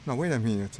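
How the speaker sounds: loud, startled catch of a mistake; sudden realisation. Real, not acted. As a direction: stop yourself short, loud. Sudden realisation mid-dogfight.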